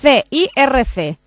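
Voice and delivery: slow, letter by letter spelling; over enunciating. Real, not acted. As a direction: spell it out slowly. Repite el deletreo. (deletreo lento)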